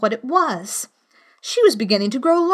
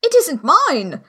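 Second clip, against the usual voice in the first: Hatter voice; 6 semitones higher, 4 dB louder, slower than usual. A narrator's reading. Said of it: "said the Hatter".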